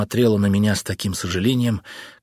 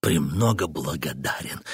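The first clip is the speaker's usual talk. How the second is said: mock thanks; 7 semitones lower, 5 dB quieter than usual. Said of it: "продолжал поясничать я".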